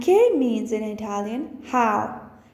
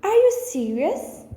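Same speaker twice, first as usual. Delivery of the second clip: much higher, asking in disbelief; disbelieving; 8 semitones higher than usual. Shown as a demonstration. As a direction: sound truly amazed. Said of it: "the next one is".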